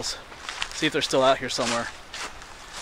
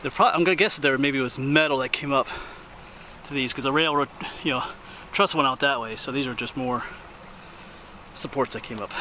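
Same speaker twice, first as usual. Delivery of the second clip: out of breath; 3 dB quieter than usual. Real, not acted. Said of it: "Sorry, I'm a little out of breath".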